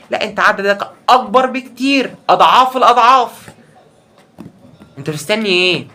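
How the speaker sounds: high, slow, loud with a laugh; excited insistence. Real, not acted. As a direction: push it home laughing. Emphatic, laughing reassurance. (حماس وضحك)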